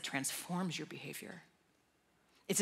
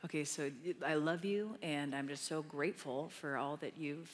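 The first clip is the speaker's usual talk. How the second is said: lightly pious, careful prayer voice; resume the showy prayer a bit stiffly; mock performance prayer. Preacher acts out restarting her prayer, mildly pious. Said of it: "performance prayer".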